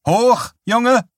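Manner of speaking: high, loud drill-sergeant command; shrill, sadistically humorous order; shrill shout. A narrator's reading. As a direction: cry it out with gleeful cruelty. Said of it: "rief sie mit schriller, auf sadistische Weise humorvoller Stimme".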